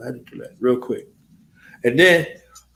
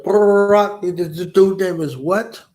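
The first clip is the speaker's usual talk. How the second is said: louder, higher "Barack" in disbelief; surprised name; 6 semitones higher, 4 dB louder, slower than usual. Retold or imitated. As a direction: blurt the name out, amazed. Soldier hears the name in Iraq.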